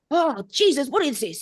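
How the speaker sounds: high, strained mock exasperation; put-on baffled protest; stressed truck driver. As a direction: groan it like a reluctant client. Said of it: "so stiff and so stressed".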